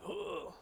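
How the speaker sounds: imitated baby grunt. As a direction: squeeze out a small baby strain. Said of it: "He said".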